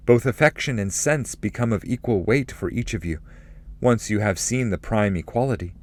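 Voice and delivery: lightly voiced pilgrim's reply. Dante replies to the spirit.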